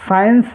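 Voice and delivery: "साइंस" opening on a plain S, C unpronounced; silent C. Shown as a demonstration. Teacher showing how science is read, "साइंस" with silent C. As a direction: say "साइंस" with no K sound after S. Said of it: "सी को silent रखना है".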